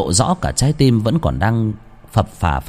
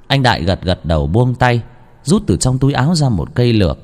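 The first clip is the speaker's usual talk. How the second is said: tender sad farewell; 3 semitones higher than usual. A narrator's reading. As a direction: say farewell to your wife gently. Hồn ma tiễn biệt vợ. (hồn ma buồn bã từ biệt vợ)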